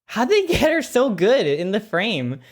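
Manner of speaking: high, laughing amazement; laughing disbelief. Real, not acted. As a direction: gasp it out between laughs. Amazed by clip, still laughing.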